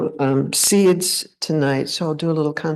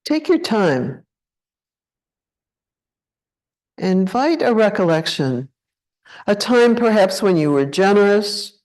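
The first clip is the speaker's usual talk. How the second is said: unhurried meditation guide, long pauses between phrases; guided meditation. Acted. Teacher leading a group to check into the body, guided meditation. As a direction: guide them gently into contemplation, leaving space after each phrase. Leads a contemplation.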